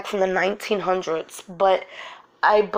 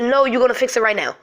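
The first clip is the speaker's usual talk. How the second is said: quick, higher insistence; retold firm demand; 4 semitones higher, 3 dB louder, faster than usual. Mother retelling her demand to the super, insistent. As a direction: reenact demanding a repair at once.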